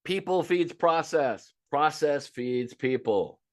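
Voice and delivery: slow, every word weighted; slow emphatic maxim. Shown as a demonstration. Coach to staff, slow and deliberate. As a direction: spell it out slowly so they write it down. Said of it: "write this shit down".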